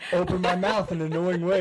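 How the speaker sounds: mock-annoying, mouth half open; annoying mouth demo. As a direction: ham up the annoying mouth habit. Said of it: "Just gonna".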